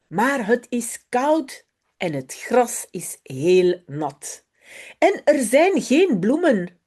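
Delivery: put-on lively storybook read-aloud of a Dutch children's text. Teacher reads a Dutch story to her pupils, lively storybook voice. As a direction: bring Jip and Janneke to life for the class.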